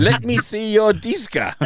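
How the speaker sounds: high-pitched, laughing through the words; laughing mock request. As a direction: crack up while giving a silly example. Mock example sentence, cracking up.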